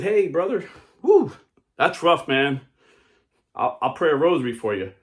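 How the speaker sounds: high, loud mock sympathy; Catholic passerby. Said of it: "Then a Catholic Christian walks by".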